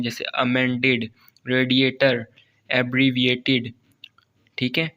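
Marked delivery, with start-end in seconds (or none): 0.2-3.7 "अमेंडेड" leaning on "मेंड", "रेडिएटर" on its first syllable; stressed syllable shown. Shown as a demonstration. Teacher reading stress examples, "अमेंडेड" to "एब्रीविएटेड" said deliberately. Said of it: "इनके ऊपर हम जोर देते हैं".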